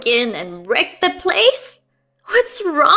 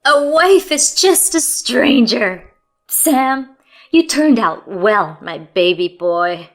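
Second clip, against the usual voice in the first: louder, slow gloating sneer; mocking; 8 dB louder, slower than usual. Mother-in-law gloating to her son, mocking. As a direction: savor the cruelty. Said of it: "mocking laughter".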